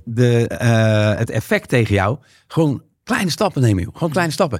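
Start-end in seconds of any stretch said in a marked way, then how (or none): 2.5-3.9 gentle advice. Retold or imitated. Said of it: "dan zegt eigenlijk de". 3.9-4.6 softer, higher repeat. Retold or imitated. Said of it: "dan zegt eigenlijk de".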